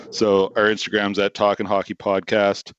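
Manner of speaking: words pushed out on a burp; talking through a burp. Real, not acted. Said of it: "that burp you just heard".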